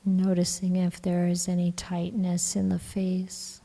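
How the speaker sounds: calm, even meditation voice with long pauses; guided meditation. Acted. Teacher guiding the group to relax the body, calm meditation voice. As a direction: gently guide them into relaxing, leaving long silences.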